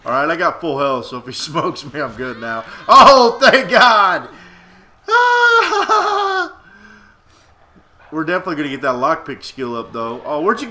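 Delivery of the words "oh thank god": relieved laughing. Real, not acted. Relieved in fight.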